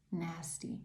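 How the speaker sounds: hushed whispered echo. Real, not acted. Reader describing how this person gets, whispering for emphasis. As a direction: drop to a voiceless whisper. Repeats the word for effect.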